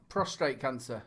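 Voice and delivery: "Prostate" said as pros-TRATE, with an extra R; low, quiet "Prostate" with R slipped into second syllable; mispronounced on request. Shown as a demonstration. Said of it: "But Aidan, say prostate cancer".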